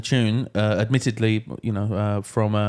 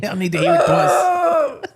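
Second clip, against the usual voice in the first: mock crying; 5 dB louder than usual. Mock tearful plea.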